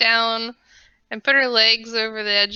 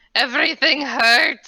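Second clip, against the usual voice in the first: calling out lightly; 3 semitones higher than usual. Calling after another character as Holly: in-character yell. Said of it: "I'm gonna yell after him".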